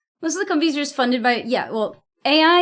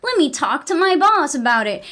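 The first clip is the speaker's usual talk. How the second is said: lightly voiced evasive middle manager, pitch jumping up on the second line; a hint of a noncommittal boss brushing it off; mock corporate manager; 3 semitones higher than usual. Stuck employee mocking layers of management, lightly voiced noncommittal manager. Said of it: "they just all talk like that".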